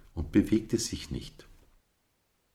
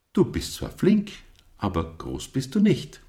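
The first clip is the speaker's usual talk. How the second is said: much higher, playful teasing ram; grinning tease; 10 semitones higher, 4 dB louder than usual. A narrator's reading. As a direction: tease back with a grin you can hear. Captain teases back, grinning.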